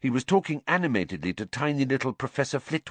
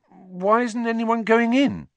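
put-on higher, puzzled young voice; curious boy; 13 semitones higher, 5 dB louder than usual. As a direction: wonder aloud, genuinely curious. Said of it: "said Ron curiously".

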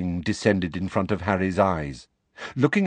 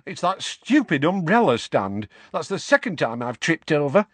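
put-on higher, whiny young woman's complaint; Tonks wailing on; 6 semitones higher than usual. A narrator's reading. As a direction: grumble up at the ceiling, flat on the floor. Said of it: "wailed Tonks".

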